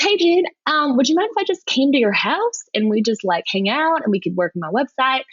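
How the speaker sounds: Retold or imitated. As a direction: imitate a Virginia client with a strong Southern accent. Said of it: "has a very strong Southern accent".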